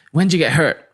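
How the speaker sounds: imitated upbeat, full-of-beans guy; Booty. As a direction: ask it like a bubbly, outgoing bloke. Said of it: "he's just full of beans".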